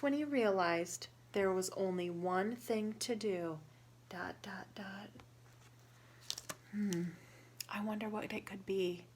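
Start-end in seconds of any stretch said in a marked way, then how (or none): 4.1-5.1 softer, whispered dot dot dot; whispered suspense. Acted. Storyteller building suspense for children, whispered. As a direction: hush for suspense.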